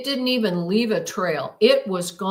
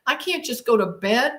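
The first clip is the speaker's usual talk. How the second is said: rushed, higher-pitched anxious self-talk; retold urgency; 3 semitones higher, faster than usual. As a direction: replay a mildly frantic inner monologue. Relives frantic thoughts after the event.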